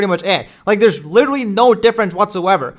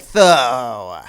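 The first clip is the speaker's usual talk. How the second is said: mock Cody Rhodes; 2 semitones lower, much slower than usual. Mocking Cody Rhodes to Seth Rollins, slow drawn-out lines. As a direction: stretch every word like a dramatic promo. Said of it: "Cody Rhodes being like".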